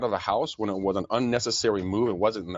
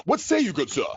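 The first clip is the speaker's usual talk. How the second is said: mock olde English accent, pitched up and a bit louder; old English accent; 10 semitones higher, 3 dB louder than usual. Host asks his co-host's take in a playful mock medieval accent. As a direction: ham up a medieval court accent. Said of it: "I just had an accent all of a sudden".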